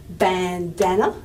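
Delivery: slow bandana with "ban" and "dan" both strong; two strong syllables. Shown as a demonstration. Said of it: "has two strong syllables".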